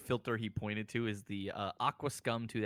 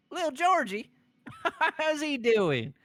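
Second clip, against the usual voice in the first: much higher, louder fond delight with a laugh; light up at an old memory; 8 dB louder than usual. Acted. Manager delighted recalling boy.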